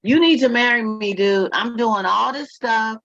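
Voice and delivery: put-on a touch of an exasperated girlfriend; mock demanding girlfriend. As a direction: voice her fed-up demands to the man. Voicing the woman's demands.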